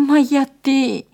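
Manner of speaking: loud, high indignant outburst; affronted cry; intense protest. A narrator's reading. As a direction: protest loudly, pitch pushed up. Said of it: "διαμαρτυρήθηκε έντονα".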